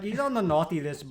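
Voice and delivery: put-on botched accent drifting toward Irish; attempted Irish accent. Friend playing a nice Canadian Santa, in muddled Irish accent. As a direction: try Canadian, land in bad Irish accent. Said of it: "that's a fucking Irish accent".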